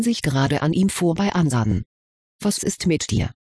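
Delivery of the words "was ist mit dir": leise lauernd nachgefragt; lurking. A narrator's reading. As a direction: ein Hauch von Lauern, fragend. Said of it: "fragte Winona lauernd". (leicht lauernd gefragt)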